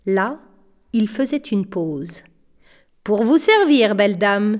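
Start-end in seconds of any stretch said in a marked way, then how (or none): 3.0-4.6 pompous showman's offer; mildly boastful, gallant flourish; puffed-up. Acted. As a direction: puff up with pride as you say it. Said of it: "se rengorgea-t-il".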